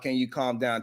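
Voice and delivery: soft, sneering imitation of a prim request; mocking calm down. Vlogger mocking the senator's request, hushed sneer. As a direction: quietly mimic her fake-calm tone.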